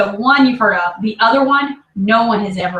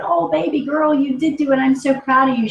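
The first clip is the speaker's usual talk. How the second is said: tender retold praise; 5 semitones higher than usual. Mother's emotional reply retold.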